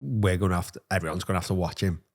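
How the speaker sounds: soft, low worried hush; hushed warning. Retold or imitated. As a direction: drop your voice as if sharing a warning. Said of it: "She was like".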